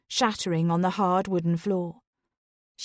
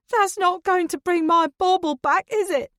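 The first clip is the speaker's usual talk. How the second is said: much higher, loud, bitter retort; furious outburst; 11 semitones higher, 5 dB louder than usual. Acted. Dawn lashing out at Ronan before storming off, loud and bitter. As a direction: snap it at them before storming off. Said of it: "Dawn storms out of the room".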